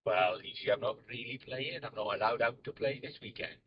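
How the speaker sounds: put-on Welsh accent, playing an absent guest; Tom Feeks. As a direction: answer as a pretend Welshman. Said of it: "I could do Tom Feeks if he was doing the Welsh accent".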